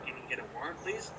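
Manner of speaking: sweetly polite, rising please; mock polite request. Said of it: "I didn't say that".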